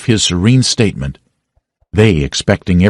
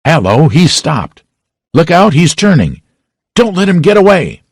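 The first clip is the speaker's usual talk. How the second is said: higher and higher alarmed shouts; crowd shouting; 10 semitones higher, 4 dB louder than usual. A narrator's reading. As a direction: warn everyone not to let him go.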